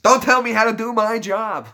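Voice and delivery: high, loud mock outrage; playful scolding shout; mock indignation. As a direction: pretend to be offended at being corrected. Mock indignation at being corrected, then laughs.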